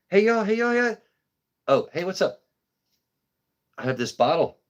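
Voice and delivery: put-on high, sing-song foreign-accented "Hey, yo" greeting; imitating a foreign accent. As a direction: mimic the store lady's accent calling out. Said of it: "How did you just speak in an accent".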